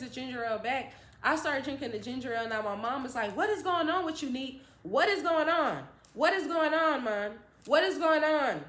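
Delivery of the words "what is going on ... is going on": higher, louder insistent mother; imitating a demanding mom. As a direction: press her hard for answers. Mom interrogating.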